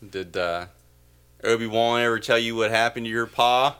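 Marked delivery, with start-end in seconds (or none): 1.5-3.8 put-on Deep South accent. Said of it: "filmed instead in the Deep South".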